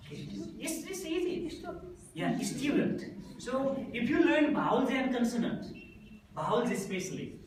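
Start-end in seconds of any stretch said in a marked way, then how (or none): 2.4-3.0 "student" with a y glide, "styu-dent"; corrected pronunciation. Shown as a demonstration. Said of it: "not a student".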